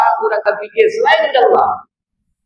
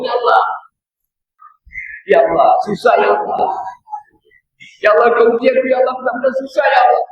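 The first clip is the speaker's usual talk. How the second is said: pleading, rising to higher cries of "Ya Allah"; desperate prayer; 5 semitones higher than usual. Retold or imitated. Man praying on prayer mat.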